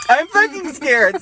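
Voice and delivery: tense frightened voice; sound scared. Real, not acted. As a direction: let real fear leak in. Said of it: "I sound scared like Leona".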